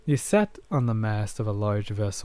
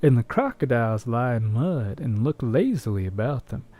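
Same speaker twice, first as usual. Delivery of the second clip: cowboy voice; 3 semitones higher than usual. Pretend. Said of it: "You want me to read as a cowboy?".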